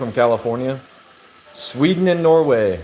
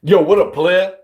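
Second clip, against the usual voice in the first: put-on African American accent, pitched up; 4 semitones higher, 4 dB louder than usual. Shown as a demonstration. Streamer shows viewers an African American accent, imitated. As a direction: do a higher, punchy African American accent greeting. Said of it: "I can do African American accent".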